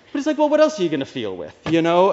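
can barely get the words out for laughing; laughing disbelief. Real, not acted. Preacher to congregation, cracking up at the girlfriend's remark, laughing. Cracking up at his own story.

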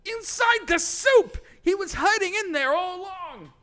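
high, loud, urgent yelling; frantic shout. Acted. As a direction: shout it out in alarm. Character yells answer.

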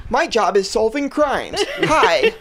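laughing, hammy dumb cop voice; cop impression. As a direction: play a silly donut-loving cop. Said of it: "a cop's impression".

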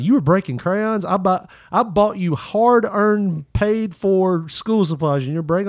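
high, slow, indignant mother scolding; scolding mom. Retold or imitated. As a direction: drag out the words like an outraged parent. Mom scolding over broken crayons.

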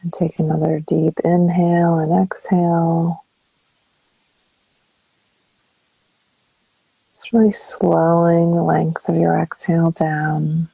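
calm meditation guide, long pauses between phrases; guided meditation. Acted. Counselor guiding listeners into breath and stillness, calm meditation voice. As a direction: ease them through each breath, leaving space after phrases.

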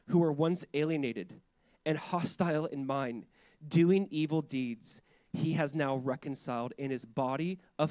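measured public reading of scripture. Acted. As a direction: read the passage out with deliberate weight. Reads scripture aloud to congregation.

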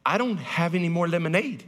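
put-on a prim kid explaining herself; lightly voiced little daughter. Daughter explaining to daddy why she refilled, lightly childlike. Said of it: "and I said".

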